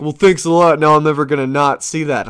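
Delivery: annoyed friends. Retold or imitated. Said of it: "people are like".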